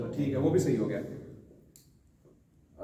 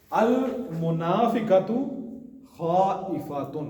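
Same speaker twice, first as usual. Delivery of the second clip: very slow model reading; 3 semitones higher, much slower than usual. Shown as a demonstration. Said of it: "teacher models Arabic sentence".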